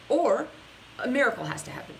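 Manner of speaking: ordinary talk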